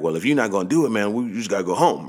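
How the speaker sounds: lightly acted fed-up father telling his son to quit; a hint of annoyed dad giving up on the game; angry dad. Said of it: "that was angry dad".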